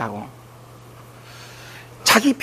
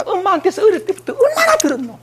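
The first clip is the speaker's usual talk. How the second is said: incredulous question; 11 semitones higher than usual. Retold or imitated.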